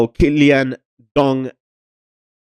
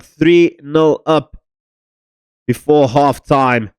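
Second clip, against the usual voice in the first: excited; 4 semitones higher, much slower than usual. Real, not acted. Celebrating third goal.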